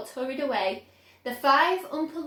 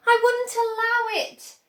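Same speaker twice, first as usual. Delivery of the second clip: higher and louder, an emphatic cry; cried out; 10 semitones higher, 7 dB louder than usual. A narrator's reading. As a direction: protest firmly. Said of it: "cried Mister Wonka".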